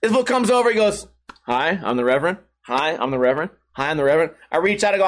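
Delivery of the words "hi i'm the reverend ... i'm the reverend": low-pitched reverend introducing himself; imitated reverend. Reverend greeting guests one by one, lightly imitated in a low voice. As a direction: play the reverend greeting mourners, voice dropped. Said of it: "this reverend comes in".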